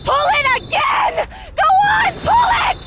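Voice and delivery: high frantic urging shout; urgent shout. Acted. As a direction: yell at him to pull. Urging partner to pull brake.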